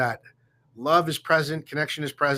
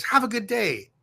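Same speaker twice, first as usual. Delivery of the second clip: friendly greeting; 8 semitones higher than usual. Retold or imitated. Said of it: "people are really warm and really polite".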